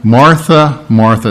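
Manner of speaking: "Martha, Martha" said firmly, second one falling; weighty, loving repeat of "Martha"; emphatic yet loving. Acted. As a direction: say "Martha" twice, firm but kind. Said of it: "It's very emphatic. ... and yet very loving".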